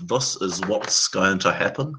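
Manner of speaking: low, slow Kiwi slur, "This" like "thus"; New Zealand accent. Shown as a demonstration. Explaining Kiwi vowels to friends, New Zealand accent. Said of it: "it's a, a sound".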